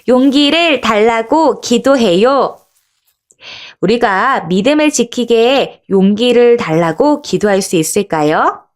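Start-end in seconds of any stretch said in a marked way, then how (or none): 0.1-2.6 slow, deliberate group reading; mild read-aloud call. Shown as a demonstration. Teacher reads along with children, slow mild call-out. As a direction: read it out slowly so all can join. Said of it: "큰 목소리로 같이 읽어볼까요".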